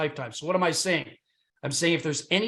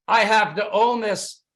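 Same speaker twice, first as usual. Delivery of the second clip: louder, slower, pressing each word; eager insistence; 3 semitones higher, 5 dB louder, slower than usual. Retold or imitated. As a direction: repeat it like you can't resist. Excited buyer repeating his want.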